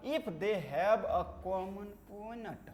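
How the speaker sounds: slow, spaced-out dictation. Real, not acted. Teacher dictates intersecting lines definition to class, slow dictation. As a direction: read out the definition slowly for copying.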